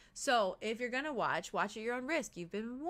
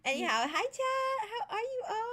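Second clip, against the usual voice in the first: laughing; 9 semitones higher than usual. Real, not acted. Laughing greeting to chat.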